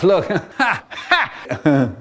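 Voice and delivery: laughing through the words. Retold or imitated. Brother laughing at little brother peeping round the door, laughing. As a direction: laugh it out, caught amused. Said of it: "He starts to laugh".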